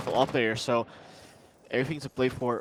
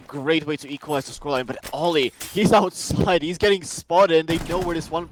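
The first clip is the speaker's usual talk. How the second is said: raised, lively esports commentary; live play-by-play; 3 semitones higher, 6 dB louder than usual. Real, not acted. Caster following Ollie getting spotted outside, raised play-by-play. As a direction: call the action with rising urgency.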